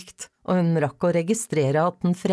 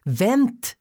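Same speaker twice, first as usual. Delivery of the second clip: higher-pitched call to wait; 9 semitones higher than usual. A narrator's reading. Father chasing his daughter, calling out. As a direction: call it out after someone running. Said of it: "ropte han".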